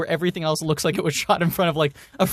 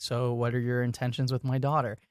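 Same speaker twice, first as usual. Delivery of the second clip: gruff overprotective dad; 5 semitones lower, 6 dB quieter than usual. Retold or imitated. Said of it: "a dad being like".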